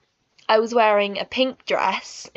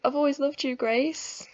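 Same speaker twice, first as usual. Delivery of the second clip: higher, emotional retold confession; getting emotional; 4 semitones higher than usual. Boy confesses he always loved her, retold emotionally. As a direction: retell a love confession, close to tears. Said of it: "I'm getting emotional just thinking about it".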